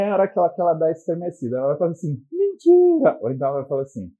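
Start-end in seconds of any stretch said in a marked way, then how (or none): 2.3-3.2 very high, loud delighted cry; high shrieking girlfriend's disbelief; thrilled squeal. Retold or imitated.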